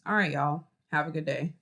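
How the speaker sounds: dull, unenthusiastic farewell; flat and low. Shown as a demonstration. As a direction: say it with no energy at all. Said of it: "Or I could say".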